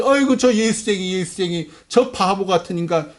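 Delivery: mildly acted street taunt; mocking jeer. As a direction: jeer lightly, as at a fool in passing. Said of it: "조롱당하는 거예요".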